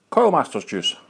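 whistled s in "Masters juice"; s whistling through the teeth. Real, not acted. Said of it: "sorry for the whistle".

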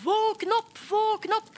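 loud, high desperate shout. Acted. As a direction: yell to wake the whole street. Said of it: "Og de ropte".

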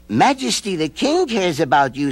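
put-on a boy reassuring gently; lightly voiced boy. A narrator's reading.

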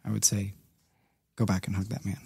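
soft, low voice holding back tears; quiet grief. Real, not acted. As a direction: speak quietly about losing your dad. Telling of father's death.

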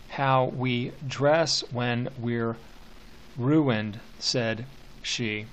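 slow, measured verse reading with long pauses; slow poem reading. Shown as a demonstration. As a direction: read each line slowly, letting it land. Teacher reads poem stanza aloud.

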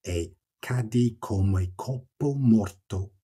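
slow, weighted Italian verse line; poetry recitation. Shown as a demonstration. Rereading the last line of the canto, poetry recitation. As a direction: recite the line slowly, word by word. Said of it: "Just read that last line again".

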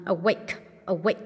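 "awake" stressed on the second syllable. Shown as a demonstration. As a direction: lean on the end of "awake". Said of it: "nhân âm hai". (nhấn âm hai "awake")

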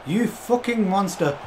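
"You fucking monster" drawn out slow, stress on "You"; slow awed curse. Real, not acted. Streamer marvels at his player, slow and drawn out. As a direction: relish each word, impressed.

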